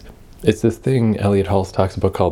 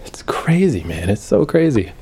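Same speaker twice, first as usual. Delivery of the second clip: higher, amazed, it's crazy; excited disbelief; 4 semitones higher than usual. Real, not acted. Telling viewers how exercise changed his mood, excited and high. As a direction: let the wonder lift the voice. Marvelling at feeling better.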